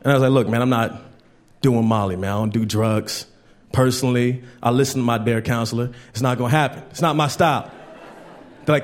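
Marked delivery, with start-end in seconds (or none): 0.3-7.7 low-pitched, matter-of-fact retold refusal; firm refusal. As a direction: calmly turn the friends down. Acts out refusing friends' drugs.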